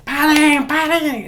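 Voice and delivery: high, loud panicked yell; shouting stop. Shown as a demonstration. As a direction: bark the order at fighting dogs. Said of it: "Eso no ayuda en nada".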